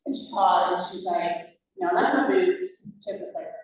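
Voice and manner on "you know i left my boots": put-on Southern accent. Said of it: "strong Southern accent".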